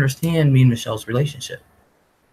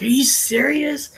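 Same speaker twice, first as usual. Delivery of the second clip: slow, unvoiced whisper, pitched up; whispered disbelief; 12 semitones higher than usual. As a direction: breathe it out in awe. Whispered disbelief in retold dream.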